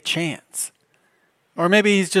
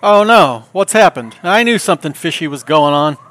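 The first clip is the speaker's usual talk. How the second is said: mock alarm; 8 dB louder than usual. Answering the scam caller with hammed-up alarm. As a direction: play the startled victim, hammed up. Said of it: "my standard ten-second nibble".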